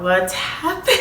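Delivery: laughing. Real, not acted.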